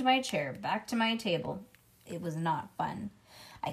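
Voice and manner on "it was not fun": ordinary delivery, nothing marked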